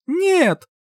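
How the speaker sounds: high, drawn-out call; shouted reply. A narrator's reading. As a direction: call back over the noise of waves. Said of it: "крикнула ему, стараясь перекричать шум волн".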